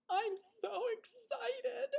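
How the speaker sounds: high, slow, gushing excitement; high breathless thrill; excited squeal. Acted. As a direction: squeal it like an overexcited skunk. Skunk excited in story.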